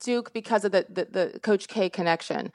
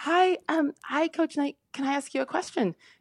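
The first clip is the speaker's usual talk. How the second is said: put-on soft, high, squeaky little girlish voice; 6 semitones higher, 5 dB quieter than usual. Retelling how she walked over to ask a coach a question, squeaky high girlish voice. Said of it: "in my squeaky high girlish voice".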